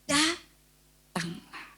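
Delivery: very slow, drawn-out invitation; Jesus inviting. Retold or imitated. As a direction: stretch it out as a calm call. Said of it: "Yesus bilang apa?". (Yesus memanggil dengan lambat)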